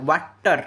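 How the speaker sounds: ୱାଟର broken into two beats, ୱାଟ and ଟର; split into syllables. Shown as a demonstration. Teacher counting sounds for students, ୱାଟର said syllable by syllable. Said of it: "ମୁଁ କହୁଛି ୱାଟର".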